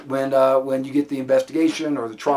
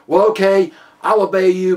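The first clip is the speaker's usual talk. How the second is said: higher, louder mock concession; grudging agreement; 4 semitones higher, 6 dB louder than usual. Suspect saving face before officer, grudging agreement. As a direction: give in while saving face. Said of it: "it gives him an out".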